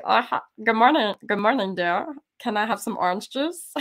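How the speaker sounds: throaty put-on Swedish accent; Stockholm accent. Greeting husband at breakfast, playful Stockholm accent. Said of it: "talking to my husband that way".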